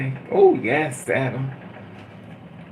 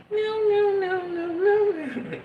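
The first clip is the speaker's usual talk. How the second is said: shrill refusal. Retold or imitated. Refusing the suitor, mock shriek.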